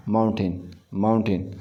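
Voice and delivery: माउंटेन said clearly as maunten, ending in a short ten sound; careful pronunciation. Shown as a demonstration. Teacher drilling students on how to say माउंटेन. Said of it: "ये टेन नहीं है बल्कि माउंटेन".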